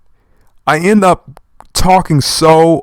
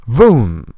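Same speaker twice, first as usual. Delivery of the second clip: comic-book sound effect read aloud; voiced sound effect; 3 semitones lower than usual. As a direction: say it as an impact noise. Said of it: "I have to say the sound effects".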